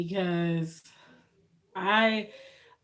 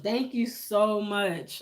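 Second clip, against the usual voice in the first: holding back tears; slower than usual. Real, not acted. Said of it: "you trying to make me cry".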